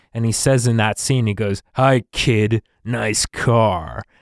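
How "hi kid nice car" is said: very slow, belittling, sarcastic tone. Speaker quotes a man in a suit greeting Rio in a film scene, mock-sarcastic. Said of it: "in a real sarcastic tone".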